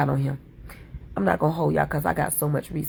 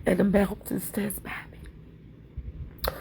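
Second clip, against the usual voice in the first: soft hymn line; 4 dB quieter, much slower than usual. Acted. Reciting hymn lines, going soft.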